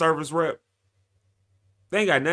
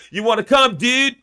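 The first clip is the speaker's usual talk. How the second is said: lightly put-on goofy voice, higher and louder; silly voice; 8 semitones higher, 4 dB louder than usual. Host inviting viewers to the event, goofy put-on voice. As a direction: toss it off in a playful dude voice. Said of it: "I just did that voice".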